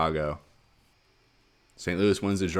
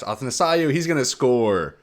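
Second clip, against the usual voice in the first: raised, louder scoring shout; excited goal call; 6 semitones higher, 6 dB louder than usual. Real, not acted. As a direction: jump up in pitch on the goal.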